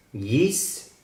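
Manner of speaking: Yisrael with the R from the throat; Yisrael pronunciation. Shown as a demonstration. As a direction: say Yisrael slowly, guttural R. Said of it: "Recuerden que la R es de la garganta". (Yisrael con la R de la garganta)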